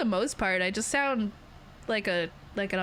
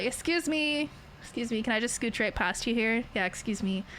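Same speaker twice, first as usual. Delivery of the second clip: very polite. Acted. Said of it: "like, very polite".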